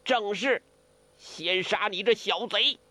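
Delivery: high, vengeful threat; grief and fury. A narrator's reading. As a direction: spit the threat out, pitched high. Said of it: "梅超风悲怒交蹦". (悲愤交加地喝骂)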